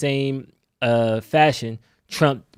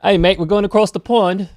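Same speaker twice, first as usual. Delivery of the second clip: a higher, louder, hammed-up British accent; bad British accent; 8 semitones higher, 7 dB louder than usual. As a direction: try on a clumsy British accent, all enthusiasm. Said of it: "I gotta work on my British accent".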